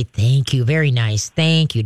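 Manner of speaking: composed, low-key thanks; very calm. Shown as a demonstration. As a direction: praise the dog evenly, without excitement. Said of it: "just very calmly say".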